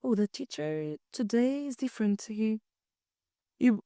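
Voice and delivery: softly, as if lost in class; quiet, clueless inner voice. Retold or imitated. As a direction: muse quietly without understanding. Mock-clueless student thought.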